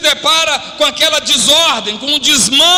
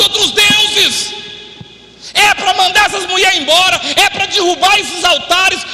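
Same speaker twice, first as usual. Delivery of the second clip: preaching at full force; 5 semitones higher than usual. Acted. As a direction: rouse the congregation like a prophet calling to action.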